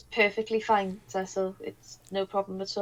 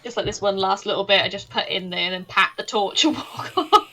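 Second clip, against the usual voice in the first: laughing; 5 dB louder than usual. Real, not acted. Player laughs describing prank.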